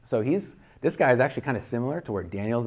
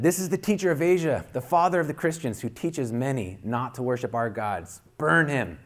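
high, raised mob cry; angry crowd voice; 5 semitones higher than usual. Acted. Someone in the arena crowd demanding his death, high raised cry. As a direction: whip the crowd up against him.

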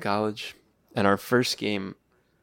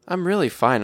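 put-on child's protest; 9 semitones higher, 7 dB louder than usual. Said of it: "She's like".

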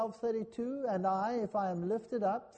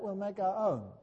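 ordinary talk, nothing marked

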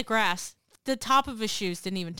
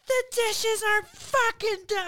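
higher, slow mock-dad complaint; grumpy dad; 13 semitones higher, 3 dB louder, slower than usual. Teen imitating her dad nagging about dishes, mock grumble. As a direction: drag it out like an annoyed father. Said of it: "And he's like".

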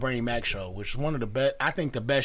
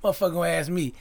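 much higher and louder, laughing through the punchline; Bernie Mac joke; 6 semitones higher, 4 dB louder than usual. Retold or imitated. Retelling Bernie Mac's stage joke to friends, loud laughing impression. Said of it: "one of his jokes was like".

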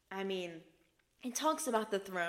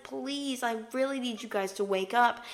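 higher, imploring plea; pleading, raised warning; urgent warning; 5 semitones higher, 4 dB louder than usual. Retold or imitated. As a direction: beg them urgently to listen. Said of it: "giving us the biggest warning ever".

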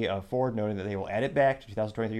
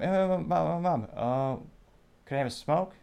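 put-on pestering kid; 7 semitones higher than usual. Kid pestering mom for a tattoo, whiny and higher. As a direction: play the nagging little kid. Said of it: "He goes up to Mom".

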